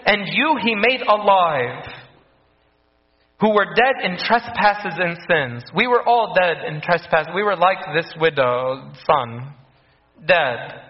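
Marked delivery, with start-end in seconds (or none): 0.1-5.6 scripture reading. Shown as a demonstration. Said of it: "He says".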